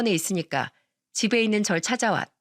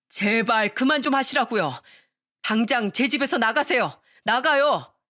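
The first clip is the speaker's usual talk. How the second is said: furious husband; 3 semitones higher than usual. Acted. Husband throws mother out.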